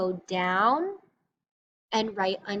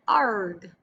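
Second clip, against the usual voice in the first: pirate growl; 4 dB louder than usual. Retold or imitated. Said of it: "like a pirate and says things like".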